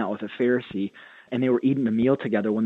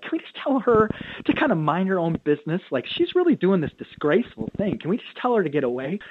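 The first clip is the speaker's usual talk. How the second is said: higher, indignant, self-important whine; haughty Pharisee; 6 semitones higher than usual. Retold or imitated. Pastor voicing a Pharisee annoyed by a woman at dinner, lightly indignant and higher. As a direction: brush the woman aside as beneath you.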